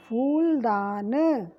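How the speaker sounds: फूलदान said briskly with a falling end; quick repeat. Shown as a demonstration. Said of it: "फा पे ऊ की मात्रा लगी". (फूलदान जल्दी दोहराना)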